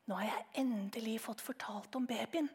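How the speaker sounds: secretive whisper in the hallway; mother whispering to father at the door. Acted. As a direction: whisper it so the boy can't hear. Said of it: "hvisket til ham".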